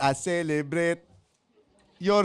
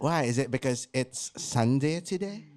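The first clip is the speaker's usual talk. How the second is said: lower, softer put-on British accent; a lightly voiced British posh act; mock British accent; 3 semitones lower, 5 dB quieter than usual. Listener asked for a birthday greeting in British accent, mock. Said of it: "British accent".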